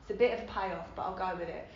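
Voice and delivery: whispered thoughts to herself; hushed inner monologue. Retold or imitated. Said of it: "And my head goes".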